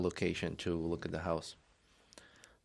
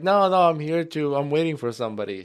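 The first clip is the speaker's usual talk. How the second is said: flustered retelling; 7 semitones higher, 9 dB louder than usual. Retold or imitated. Retold refusal, excited.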